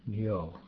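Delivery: Nyo with a canyon-like ny. Shown as a demonstration. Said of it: "pronounced like the N Y in canyon".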